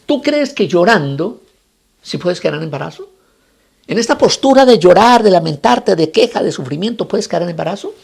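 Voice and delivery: pointed question, building loud and high then easing; challenging the weeper. Acted. Rabbi confronts the woman crying to conceive, challenging. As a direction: confront with stretched, emphatic questioning.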